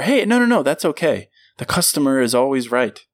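bright eager-to-please clerk; customer service voice. Retold or imitated. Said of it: "That's the customer service voice".

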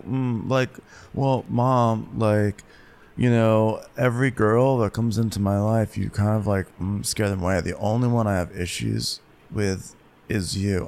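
put-on halting, filler-filled teenage-style talk; mumbling son impression. Son complaining to his mom, halting and mumbly. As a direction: stall between words like a sulky overgrown teen. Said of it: "he's still talking like".

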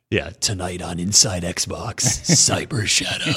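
deep, dramatic trailer announcer. Pretend. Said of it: "say the rest of the names in announcer voice".

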